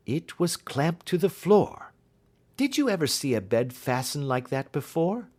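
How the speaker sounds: confident detective reassuring a frightened client; detective's voice. Acted.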